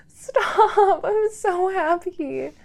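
welling up with joy; touched, drawn-out and close to crying; happy tearful. Acted. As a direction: let a tearful laugh creep into the words. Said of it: "You're gonna make me cry".

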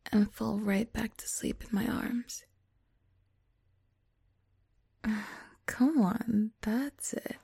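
soothing whisper. Acted.

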